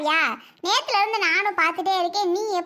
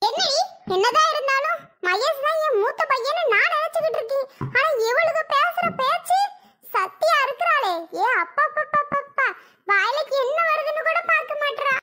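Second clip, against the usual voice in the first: exasperated complaint; 6 semitones higher than usual. Acted. Mother-in-law complains about Sathya.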